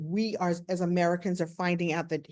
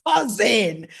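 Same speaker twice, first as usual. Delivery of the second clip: elated cousin greeting; 6 dB louder than usual. Retold or imitated. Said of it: "he grabs me in this big hug".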